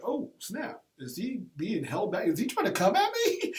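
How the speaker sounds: startled alarm. Retold or imitated. Realizes the player is charging him.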